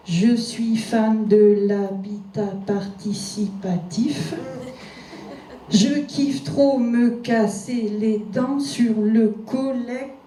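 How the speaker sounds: slow, pompous poetry declamation; hammed-up solemn poet reading a silly line; mock alexandrine recital. Shown as a demonstration. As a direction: recite it like grand classical verse, very slowly. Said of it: "Tiens, des alexandrins".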